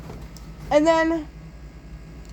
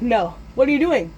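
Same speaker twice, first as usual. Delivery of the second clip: alarmed protest; 3 semitones higher than usual. Retold or imitated. Boy protests lighter fluid.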